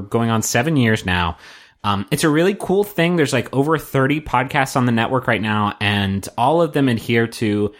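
earnest host voice; sincere, grounded announcer read; serious voice. Shown as a demonstration. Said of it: "This is my serious voice".

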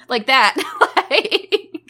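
high, squeaky little gremlin noise; squeaky gleeful gremlin giggle. Shown as a demonstration. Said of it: "little gremlin voice".

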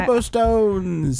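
high, slow hammed-up Cockney hawker; Cockney street seller. Pretending to sell wares in 1935 London, slow high Cockney cry. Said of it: "I was really hoping you would do an accent".

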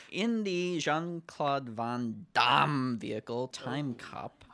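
slow, dramatic trailer announcer; lightly hammed-up action-film trailer read; movie trailer voice. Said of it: "ten points for his impression".

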